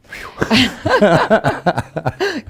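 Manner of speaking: bright burst of laughter; loud amused laugh; real laugh. Real, not acted. Laughing at herself.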